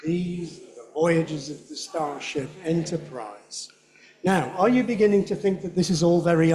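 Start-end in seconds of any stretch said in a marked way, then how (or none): 0.1-3.7 slow, softer read; slow practice read. Shown as a demonstration. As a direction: read it slowly. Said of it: "can you do it at his speed".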